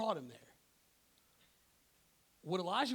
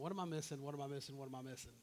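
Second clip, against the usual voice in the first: repeated question fading softer and lower; puzzled self-talk; 3 semitones lower, 6 dB quieter, much faster than usual. Retold or imitated. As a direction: mull it over to yourself, trailing away. Muttering to himself while puzzling it out.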